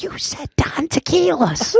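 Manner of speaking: high laughing protest; disbelieving protest. Retold or imitated. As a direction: accuse him in amused disbelief.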